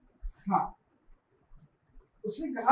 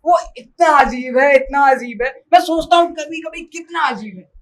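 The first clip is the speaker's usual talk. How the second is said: higher, emphatic amazement; animated exclamation; 4 semitones higher, 4 dB louder than usual. Acted. Telling her how strange he is, exclaiming. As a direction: marvel insistently, voice lifted.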